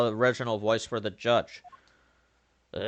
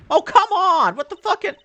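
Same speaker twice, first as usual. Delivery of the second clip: loud frustrated yell at the screen; angry shout; 9 dB louder than usual. Real, not acted. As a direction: shout it out in disbelief. Frustrated gamer yells at game.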